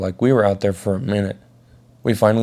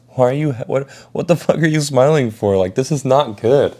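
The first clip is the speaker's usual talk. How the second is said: higher-pitched, incredulous questioning; mock-exasperated, pitched up; retold exasperation; 5 semitones higher than usual. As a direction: act out baffled alarm at a friend. Retells confronting his smiling friend.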